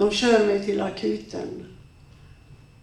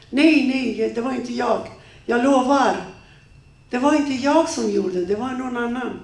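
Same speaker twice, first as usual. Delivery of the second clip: pleading denial; 2 semitones higher than usual. Acted. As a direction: deny it desperately. Ex-husband denies it.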